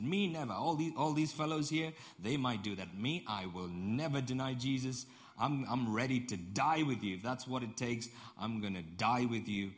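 boastful, emphatic pledge; mildly acted brave boasting; bravado. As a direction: swear loyalty with showy confidence. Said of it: "he showed off his bravado".

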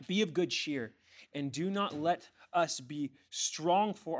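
measured, emphatic verse reading; forceful scripture reading. Acted. Preacher reading Second Samuel to the church, emphatic. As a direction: proclaim it phrase by phrase.

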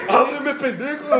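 high, slow mock child's yell with a laugh; kid demanding. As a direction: drag it out like the kid pounding on the door. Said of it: "también te empieza a tocar". (niño exigiendo, muy agudo y lento, entre risas)

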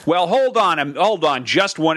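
drawn-out, hammed-up American objection; American caricature. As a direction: protest like a sketch-comedy American. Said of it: "that bit about Americans".

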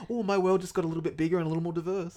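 slightly quick, lightly sincere tone; a hint of earnest self-praise; lightly mocking stranger. Mocking people proud of meeting James, lightly voiced. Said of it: "they just like".

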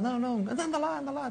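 put-on a high, teasing Madeiran-accented plea; Madeiran accent imitation. Teammate mimicking Cristiano begging to drive the cart, Madeiran accent. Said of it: "com aquele sotaque ainda madeirense".

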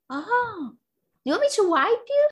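put-on high, quick child's offer; little daughter. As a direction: imitate a helpful small girl, high-pitched. Voicing her small daughter's offer.

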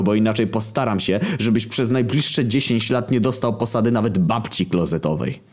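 high-pitched angry tirade; furious shout. A narrator's reading. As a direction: chew out an employee, red with rage. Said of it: "cały czerwony na twarzy krzyknął".

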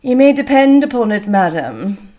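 coolly polite, firm opening that drops at the end; cold civility. A narrator's reading. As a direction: assure her with icy courtesy. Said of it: "with cold civility".

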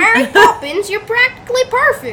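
loud southern redneck twang; redneck accent. Shown as a demonstration. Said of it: "do it in a redneck accent".

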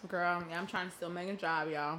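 talking while eating popcorn; words round a mouthful of popcorn; mouth full. Real, not acted. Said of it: "sorry, I'm eating my popcorn".

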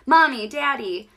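lightly voiced scared little girl calling parents; mock crying call. Julia running down the hall to her parents, mock crying call. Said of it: "Julia ran down the hall crying".

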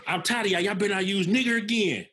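laughing through a mock coach quote; laughing mimicry of the coach. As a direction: giggle while playing the coach.

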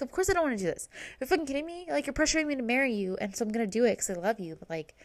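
upset outburst. Retold or imitated. Heidi fed up at courthouse.

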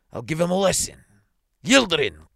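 high, loud summons; crying out. A narrator's reading. Superintendent summoning the policeman, crying out. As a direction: shout for your subordinate. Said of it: "cries the superintendent".

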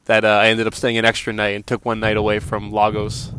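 talking into strong wind; wind in the face. Real, not acted. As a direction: voice against gusts of wind. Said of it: "it's windy".

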